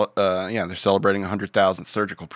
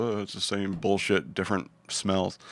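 jaded; 6 dB quieter than usual. Acted. World-weary punchline.

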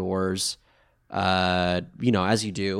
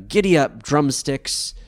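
mild mock yell; 4 semitones higher than usual. Podcaster retelling Joey riding off, mild mock yell. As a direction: call out to a steed, half-hearted yell. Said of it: "He, he yells".

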